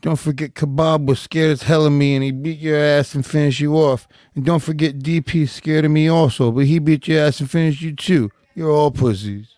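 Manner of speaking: lightly voiced trash-talking fighter; a hint of a fighter's taunting, reading tweets aloud; Nate Diaz. Co-host reads a tweet to a rival, lightly impersonated trash talk. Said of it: "you do a pretty good Nate Diaz impression".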